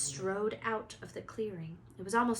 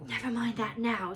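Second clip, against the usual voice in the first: breathless; 4 dB louder than usual. Acted. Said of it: "said Harry breathlessly".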